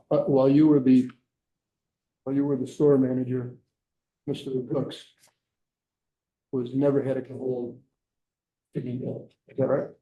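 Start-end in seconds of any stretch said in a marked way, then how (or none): 2.2-9.9 muffled, like a hand over the mouth. Real, not acted. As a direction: speak through a covered mouth. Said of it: "you, you muffled".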